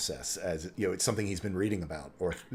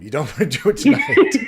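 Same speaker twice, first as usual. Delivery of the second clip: loud, much higher, laughing through the line; dwarf accent breaking into laughter; 11 semitones higher, 17 dB louder than usual. Acted. Doc warning the party, cracking up mid-dwarf accent. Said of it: "Suddenly I'm a dwarf".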